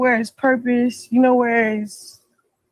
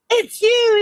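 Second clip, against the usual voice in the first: retold yell; 9 semitones higher than usual. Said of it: "I be like".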